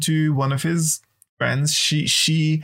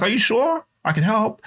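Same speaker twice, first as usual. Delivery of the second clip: put-on child's voice, higher and eager; eager child insisting; 6 semitones higher than usual. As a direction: keep pushing to help like a kid. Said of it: "I'm like".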